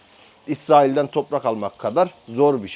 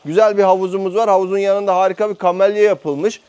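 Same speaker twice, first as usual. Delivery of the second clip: louder over a cold; speaking loudly; 5 semitones higher, 4 dB louder than usual. Real, not acted. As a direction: push the voice out loud. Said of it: "bağıra bağıra konuşmaya çalışacağım".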